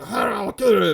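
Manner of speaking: high-pitched mock ranting; Cary Elwes. Co-host mimicking actor threatening the kidnapper, mock distressed. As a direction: imitate a distraught, garbled threat. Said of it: "it's like he's going".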